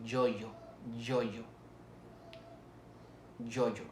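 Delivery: yoyo with a firm J-like Y in both syllables; palatal Y. Shown as a demonstration. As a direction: model word yoyo, each Y pressed to the palate. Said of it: "representa el sonido de Y".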